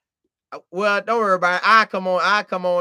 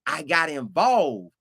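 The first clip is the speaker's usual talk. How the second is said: usual speaking voice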